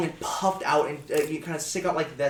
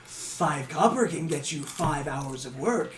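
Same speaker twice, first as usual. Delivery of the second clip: slow, soft, kindly offer; gentle sales pitch; 2 semitones lower, 3 dB quieter, slower than usual. Acted. Old goblin quoting a cheap price, slow and gentle. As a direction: reassure them it's affordable.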